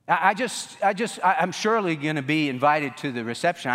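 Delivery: stumble, unsettled; flustered stammer. Retold or imitated. Guest pleading with the doorman, stammering.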